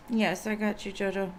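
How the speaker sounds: hoarse, scratchy throat. Real, not acted. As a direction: talk through a scratchy sore throat. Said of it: "sorry about my scratchy voice".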